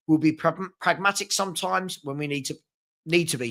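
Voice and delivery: speaking through hiccups; words broken by hiccups. Real, not acted. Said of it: "Sorry, I got the hiccups".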